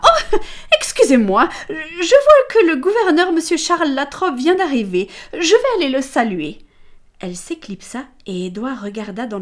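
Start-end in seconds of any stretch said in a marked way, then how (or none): 0.1-6.6 high, loud excited exclamation; exclaiming. Acted. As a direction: burst out delightedly, then excuse yourself. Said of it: "elle s'exclama". (exclamation ravie, très aiguë et forte)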